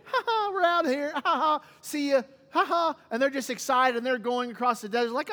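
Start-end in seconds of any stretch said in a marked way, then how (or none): 0.0-3.0 giddy, high-pitched gloating cheer with mock laughs; joyful. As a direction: act out a jubilant getaway. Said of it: "the joy".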